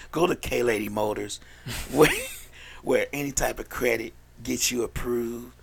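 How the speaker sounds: slow, measured car-lot ad read; mock radio commercial. Host practicing a K Motors ad for paid spots, mock commercial read. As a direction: pitch the deal like a local radio spot. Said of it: "Trying to practice my commercial shits".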